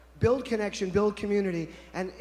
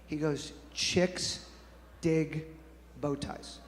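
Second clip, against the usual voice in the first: conspiratorial; 5 semitones lower, 9 dB quieter than usual. Retold or imitated. Friend confiding his bow tie secret, conspiratorial. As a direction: lean in and share a secret under your breath. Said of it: "very conspiratorial".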